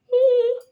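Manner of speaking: loud gaping yawn mid-sentence; big yawn. Real, not acted. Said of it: "I start yawning".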